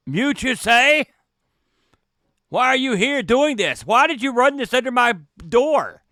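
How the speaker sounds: mild lordly suspicion; suspicious. Acted. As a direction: press the stranger, disbelieving. GM voices suspicious man.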